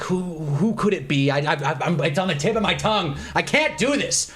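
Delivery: mock flustered stammer, building at the end; retold freak-out. Date straining to recall a player's name, retold freak-out. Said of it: "She's, like, freaking out".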